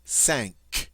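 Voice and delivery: cinq said sank, a nasal vowel and a hard K at the end; French cinq, nasal, hard final K. Shown as a demonstration. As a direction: say cinq like sank, through the nose. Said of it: "the French word for five".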